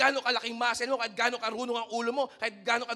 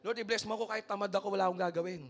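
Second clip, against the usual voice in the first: mock lazy prayer; 3 semitones lower, 5 dB quieter, faster than usual. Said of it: "Gusto mo yung mga magical prayer".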